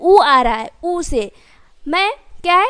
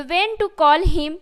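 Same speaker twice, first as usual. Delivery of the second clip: very slow, word by word; slow, careful model sentence; slow dictation; much slower than usual. Shown as a demonstration. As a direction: spell it out slowly for the class. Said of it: "teacher models the English sentence".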